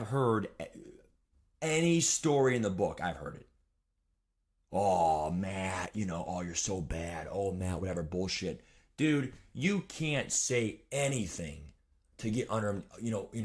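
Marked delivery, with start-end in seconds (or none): 4.7-8.6 lower, dismissive mock parent; a hint of a sneering dad; lightly imitating a parent brushing off his calls; mocking complaint.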